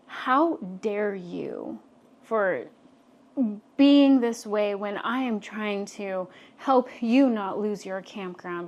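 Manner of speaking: slow, indignant retort, mildly heated; getting angry. Retold or imitated. Woman retelling her retort to her yelling boss, mildly angry. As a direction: retell mild anger with drawn-out, deliberate words. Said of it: "I'm getting angry".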